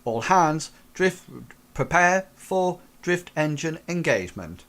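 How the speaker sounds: high, loud all-hands call, then counting down; ship announcement countdown. Acted. Captain calls all hands before the drift jump, loud.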